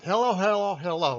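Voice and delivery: mock-posh British greeting; British accent imitation. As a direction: echo the clip's hello in a playful British accent. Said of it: "with kind of a British accent".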